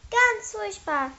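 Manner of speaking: high, drawn-out twitter; chirping. A narrator's reading. Mathilda confirms the dreadful cold, chirping. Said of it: "zwitscherte Mathilda".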